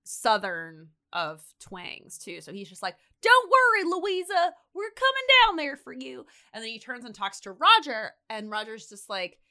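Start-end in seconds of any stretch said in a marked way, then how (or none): 3.2-6.3 high, loud reassuring shout; calling down. Retold or imitated. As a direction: call down to someone trapped below. Rescuer calling down to trapped girl.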